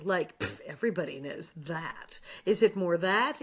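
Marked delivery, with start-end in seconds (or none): 0.4-2.2 soft, dismissive throwaway with a scoffing pff. Shown as a demonstration. Villain line reading tried out as a quiet, dismissive throwaway. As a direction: toss it off like it's beneath you. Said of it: "Or should this be more throwaway?".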